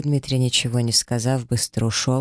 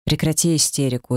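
sharp rebuke; 3 semitones higher than usual. Acted. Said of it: "резко сказал Дмитрий".

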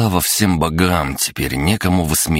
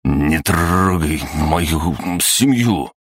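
slow, frozen with fear; terrified plea; much slower than usual. Acted. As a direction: barely get the words out in terror. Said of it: "едва ворочая языком от страха". (еле выговаривая от страха)

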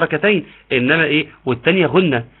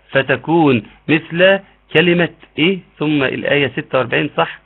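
normal talking voice

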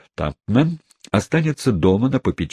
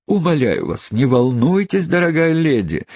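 soothingly; 9 semitones higher, 3 dB louder than usual. Acted. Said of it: "успокоительно заговорил мистер Тампман".

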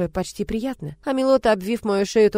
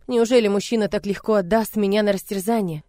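ordinary delivery, nothing marked

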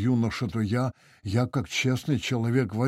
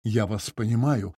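usual speaking voice

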